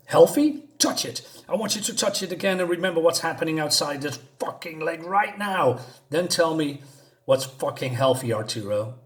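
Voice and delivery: mock explosion with a sharp start, settling as it goes; retold outburst. Sam exploding at his boyfriend Arturo, mildly acted outburst. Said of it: "Sam is gonna explode again".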